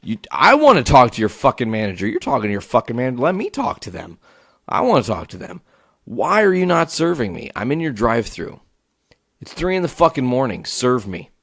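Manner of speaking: retold indignant demands, punched in bursts; indignant customer. Customer demanding the manager at the drive-thru, indignant. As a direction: demand service like an outraged customer.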